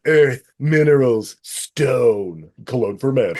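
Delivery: slow, self-serious cologne-ad voice; Tom Ryder. Retold or imitated. Movie star poses in a cologne commercial, slow and portentous. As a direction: intone each word like a pretentious perfume commercial. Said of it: "commercial that Tom Ryder's doing".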